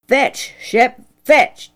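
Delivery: a lightly voiced father calling the dog, firm; father's command. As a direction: call "Fetch" out to the dog like a farmer. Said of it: "Dad ordered".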